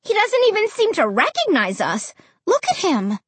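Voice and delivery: high, upset protest; distressed, high-pitched complaint; wailing. A narrator's reading. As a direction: wail it in dismay. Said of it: "I wailed".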